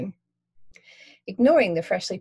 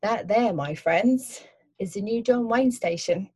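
a light Cockney cabbie, higher; friendly London cabbie asking; 4 semitones higher, 3 dB louder than usual. Acted. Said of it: "Cockney accent".

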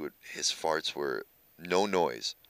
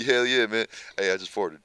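imitating Reg. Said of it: "That's how he talks".

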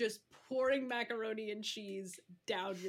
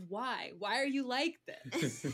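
disapproving. Acted. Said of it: "a disapproving but not angry kind of".

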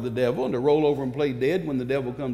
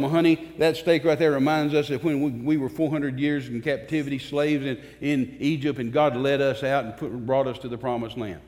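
tender explaining; 4 semitones lower than usual. Acted. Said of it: "You tell them".

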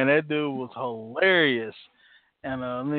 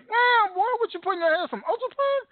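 mock barber tease. Quoting barber teasing.

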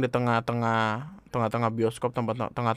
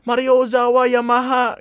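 high, building yells of fake Japanese; mock shouting; 11 semitones higher, 6 dB louder, slower than usual. Japanese guests stuck in the lift, mock shouting. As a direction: holler like a trapped guest in a comic sketch. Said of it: "Orang Jepangnya teriak-teriak".

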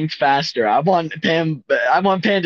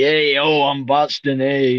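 mock Boston accent. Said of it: "reference to the Boston Tea Party".

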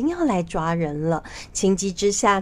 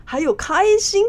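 smiling, teasing; 4 semitones higher, 4 dB louder than usual. Acted. Fake monk showing the minister all his hearts, teasing. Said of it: "他笑着说".

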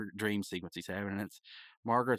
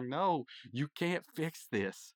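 slow, higher-pitched mock anger; mad retort; 5 semitones higher, much slower than usual. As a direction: act out an angry friend, drawing the words out. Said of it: "he's mad. He's, he's really mad".

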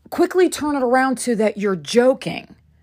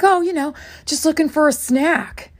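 higher-pitched mock-casual brush-off; mimicked nonchalance, pitched up; imitating casual excuse; 6 semitones higher than usual. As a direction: act out his offhand excuse. Imitates friend excusing himself.

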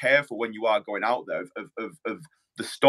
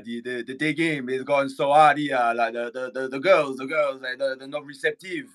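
put-on French accent, slightly raised pitch; 2 semitones higher than usual. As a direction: imitate a Frenchman complaining in halting English. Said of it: "that was my French accent".

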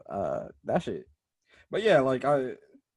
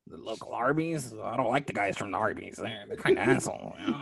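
crackhead voice; 5 dB quieter than usual. Acted. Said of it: "a random crackhead".

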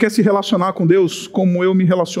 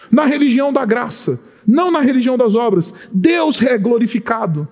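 emphatic preaching. Acted. Preacher insisting to the congregation on grace, emphatic. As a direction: hammer out the contrast, punching não.

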